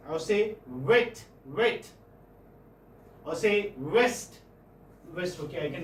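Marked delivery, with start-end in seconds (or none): 0.7-1.9 "wet" slowed, with a rounded w; rounded lips. Shown as a demonstration. Teacher modelling for students to say, rounded lips. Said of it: "You round your lips". 3.8-4.4 "west" drawn out on a rounded w; rounded lips. Shown as a demonstration. Teacher giving another w example, rounded lips. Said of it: "You round your lips".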